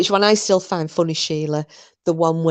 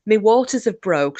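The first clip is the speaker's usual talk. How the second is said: higher, mildly mock-panicked; panicked daughter; 5 semitones higher than usual. Daughter tells mum she's in labour, mock panic. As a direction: break the news like a worried daughter in a joke. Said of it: "rings her mum in a panic".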